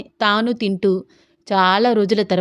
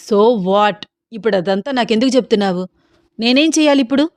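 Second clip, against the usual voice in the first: angry and uneasy; faster than usual. Acted. Ram snaps at Sita for pushing him, angry and uneasy. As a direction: snap back at her, restless and fed up. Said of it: "కోపంగా, అనీజీగా అన్నాడు రామ్".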